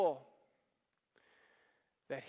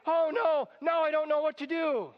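higher, louder hammed-up panic; mock panic; 6 semitones higher, 3 dB louder than usual. Preacher mocking the idea of God panicking, hammed-up fright. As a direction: play a God in a fake flap. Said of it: "does God panic and say".

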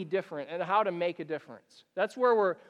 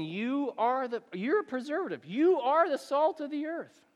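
rousing quote; 6 semitones higher than usual. Acted. Jesus declaring to his followers, rising and bold. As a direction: build it up with conviction. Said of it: "Jesus saying".

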